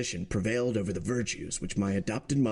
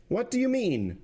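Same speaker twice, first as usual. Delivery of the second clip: much higher, sharp outcry; president cries out; 13 semitones higher than usual. Acted. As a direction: cry out in disbelief, higher. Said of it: "cried the president".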